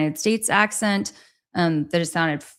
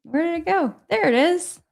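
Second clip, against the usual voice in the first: usual speaking voice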